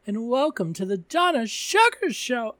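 breathy vintage purr. Acted. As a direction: welcome them like a glamorous diva. Put-on host greeting.

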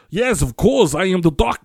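a hint of a flustered German accent. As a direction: imitate a flustered doctor slipping into German-accented English. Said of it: "his German accent comes back".

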